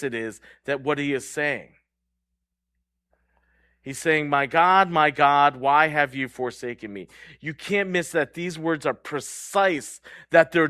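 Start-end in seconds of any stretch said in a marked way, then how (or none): 4.3-7.1 restrained cry, louder at first, then easing; retold cry of pain. Preacher quoting Jesus on the cross, mildly raised cry. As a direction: cry it out without truly screaming. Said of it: "Jesus has to scream it".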